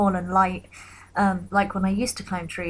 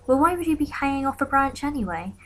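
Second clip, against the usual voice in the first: mock scolding stranger; 6 semitones higher than usual.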